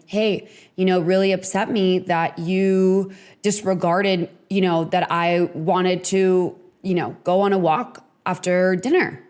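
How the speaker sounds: unhurried, gentle complaint; a calm, caring request to a partner; calm and kind. Shown as a demonstration. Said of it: "If you approach your partner like that".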